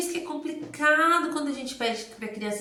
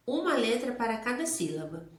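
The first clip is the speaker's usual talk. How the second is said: usual speaking voice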